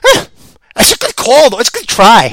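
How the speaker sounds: ordinary talk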